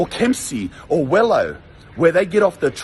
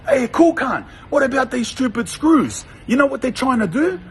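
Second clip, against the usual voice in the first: raised, higher voice calling down the cells; yelling out; 6 semitones higher than usual. Retold or imitated. Prisoner calling out to his mate about the screws, raised voice. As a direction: call out to a mate a few windows away. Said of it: "he's yelling out to his other cool cunt mate".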